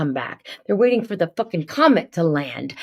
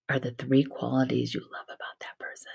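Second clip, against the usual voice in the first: whispered question; 2 semitones lower, 6 dB quieter than usual. Retold or imitated. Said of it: "And then I say".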